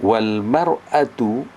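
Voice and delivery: measured Arabic reading, vowels stretched out; rhythmic hadith recitation. Shown as a demonstration. Teacher reads again so students copy the rhythm, measured recitation. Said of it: "tiru rentak saya baca".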